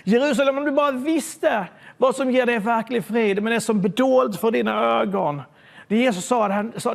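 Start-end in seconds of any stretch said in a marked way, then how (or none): 0.0-5.4 crying out. Retold or imitated. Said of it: "Och han börjar ropa".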